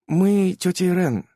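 slow, deliberate words; slow weighty address; very slowly. A narrator's reading. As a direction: hang a dead silence. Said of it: "очень медленно".

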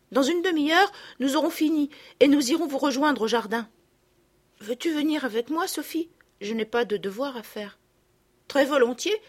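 eager to go play; lightly voiced eager children; cheerful girls.

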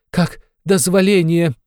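high, slow, loud wail of outrage; wailing cry. A narrator's reading. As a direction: howl the question, aghast. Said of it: "завопила Катерина Ивановна". (высокий медленный вопль)

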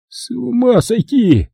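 high, slow, drawn-out groan of despair; Kelly groans at the absurd robbery. Acted. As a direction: moan it, exasperated. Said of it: "простонал Келли".

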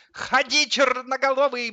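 high, loud dance whoop; egging on. A narrator's reading. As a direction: cheer the dancer on. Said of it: "бодрил его Сидор". (задорно, подбадривая)

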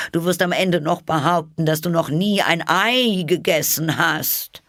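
high, loud accusing bird voice; high pigeon voice, scolding; insistent pigeon. A narrator's reading. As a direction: refuse to be fooled. Pigeon insists Alice is snake.

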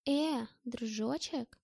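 anxious. Acted. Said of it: "заволновалась Маша".

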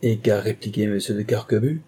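lightly amused question; mildly merry marquis; laughing voice. Acted. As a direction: ask with a hint of laughter. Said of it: "d'une voix rieuse".

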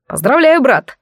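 high, bright congratulating cry; joyful exclamation. Acted. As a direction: call out congratulations with delight. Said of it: "воскликнул Бэйязанхан".

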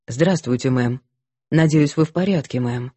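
low, rough smoker's voice; gruff soldierly man; smoky-voiced man. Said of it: "мужчин с прокуренными голосами". (прокуренный мужской голос)

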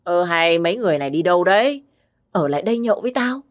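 put-on fast, slurred drunken calling. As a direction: call after them, drunk and slurring. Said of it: "bằng cái giọng lè nhè của kẻ say rượu".

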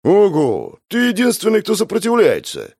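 high, amused surprise; sincere surprise. Acted. Narrator surprised that the bandit resists, amazed. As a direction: marvel at him. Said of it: "искренне удивился".

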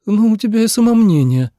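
high, loud amazed exclamation; astonished girl. A narrator's reading. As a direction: marvel at his vanity. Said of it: "поразилась А Цинь". (поражённо, громко и высоко)

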